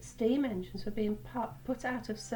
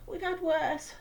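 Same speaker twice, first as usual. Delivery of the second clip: smiling; 8 semitones higher, 3 dB louder than usual. A narrator's reading. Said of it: "smiled Oliver".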